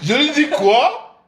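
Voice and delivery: laughing through a slow quoi; laughing disbelief. Real, not acted. Son laughing at his mother's claim, disbelieving.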